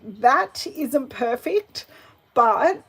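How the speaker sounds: usual speaking voice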